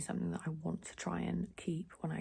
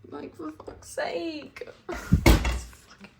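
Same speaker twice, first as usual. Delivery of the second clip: higher, slow and loud disgusted swearing; slow angry rant; 10 semitones higher, 10 dB louder, slower than usual. Real, not acted. Vlogger ranting at the rank kitchen, slow angry swearing. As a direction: spit each word out slowly in disgust.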